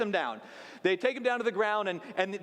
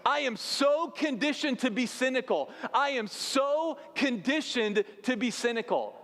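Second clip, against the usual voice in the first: higher, with "so" stretched and stressed; emphatic confession; 5 semitones higher than usual. Real, not acted. Preacher confessing his own cynicism, "so" stressed emphatically. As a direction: lean hard on "so", slowing on the repeat.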